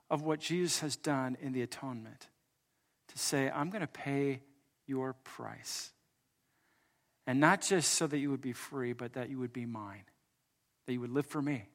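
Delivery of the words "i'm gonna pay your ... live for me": soft, low-key earnest pledge; hushed, intimate declaration; tender promise. Acted. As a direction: promise it quietly, letting the voice sink. Voicing Jesus paying the price.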